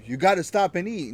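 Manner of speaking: half-strength retold telling-off; retold yelling. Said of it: "I'm yelling at her".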